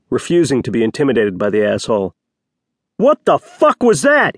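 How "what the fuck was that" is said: high, drawn-out roar; furious bellow, stretched out; outraged roar. A narrator's reading. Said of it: "he roared".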